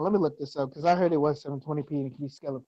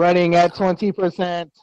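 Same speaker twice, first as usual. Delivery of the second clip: robot voice; 8 dB louder, slower than usual. Pretend. Robot status report.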